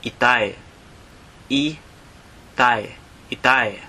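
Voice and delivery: "itay" as ee-TIE, clear and slow; Tagalog word for father. Shown as a demonstration. Teacher modelling "itay" for listeners. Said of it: "Or you can also say".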